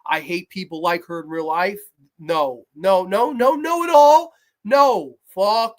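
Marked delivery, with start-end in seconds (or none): 2.2-5.8 rising furious no; building shout. Real, not acted. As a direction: escalate from firm to yelled. Rising refusal.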